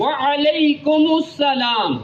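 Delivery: وعلیکم السلام very slow with a clear ain in وعلیکم. Shown as a demonstration. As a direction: stress the ain in وعلیکم, slowly. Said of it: "عین واضح آپ نے بولنا ہے".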